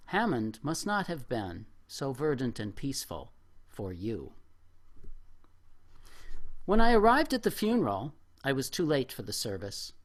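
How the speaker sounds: measured, reflective reading voice; reading a memoir aloud. Acted. Reading an elegy to a lost friend, measured and reflective. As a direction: read it like a personal essay to a room.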